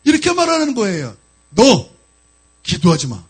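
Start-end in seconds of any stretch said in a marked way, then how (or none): 1.5-3.2 low, menacing command as the devil; a loud first word, then drop deep into the threat; demon's voice. Retold or imitated. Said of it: "이 마귀의 음성을 처음 들었어요". (낮게 깔린 마귀의 위협적인 목소리)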